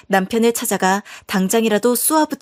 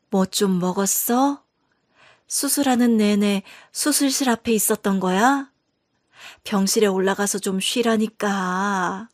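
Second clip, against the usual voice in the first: weak mother fussing over her daughter after surgery; tired mother; 3 dB quieter than usual. Acted. Recovering mother speaks to daughter.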